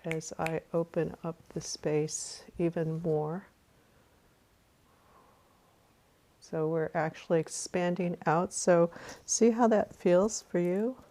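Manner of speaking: calm meditation guide with long pauses; guided meditation. Real, not acted. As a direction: guide listeners through a breath, unhurried.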